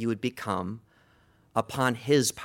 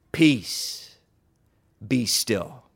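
bellowed rebuke; 2 semitones lower, much slower than usual. Acted. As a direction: rebuke the storm in two firm bursts. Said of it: "he bellows out".

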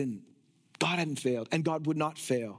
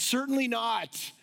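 slow, raised-pitch firm refusal; emphatic denial; 5 semitones higher than usual. Acted. Preacher voicing Paul's response to the objection, emphatic denial. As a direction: stretch out a firm rejection. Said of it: "the strongest negative".

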